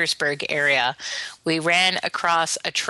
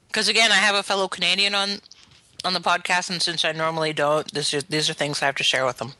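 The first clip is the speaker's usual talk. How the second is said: talking while chewing; words pushed through a mouthful; mouth full. Real, not acted. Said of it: "Can you stop eating while you do it?".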